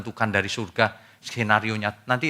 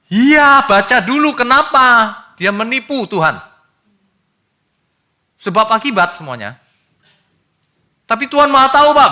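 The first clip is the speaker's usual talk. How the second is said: high, loud, forceful rebuke; preaching at full force; fiery preaching; 13 semitones higher, 9 dB louder than usual. Acted. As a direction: thunder the correction from the pulpit. Preacher argues back at objection.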